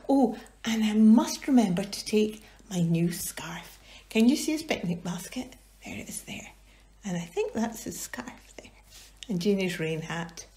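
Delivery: put-on hushed aside to the children; storytelling whisper. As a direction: whisper as if sharing a secret.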